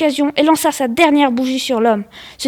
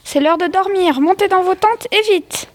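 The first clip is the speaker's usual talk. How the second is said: higher-pitched, mildly bossy mum; lightly acted motherly order; exclaiming mother; 5 semitones higher than usual. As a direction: send the kids off to bed. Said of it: "s'exclama la maman des deux garçons".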